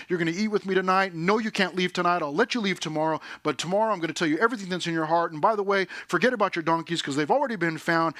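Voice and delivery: brisk, run-on mock monologue; rapid-fire. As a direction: rattle off orders one after another. Rapid-fire imagined speech of Samuel.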